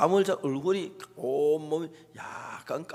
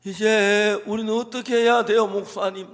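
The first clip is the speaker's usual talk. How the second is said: high, louder mock wail; raised-voice imitation of a tearful plea; retold sobbing plea; 5 semitones higher, 4 dB louder than usual. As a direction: plead as if imitating someone in tears. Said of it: "막 엉엉 우는 거예요".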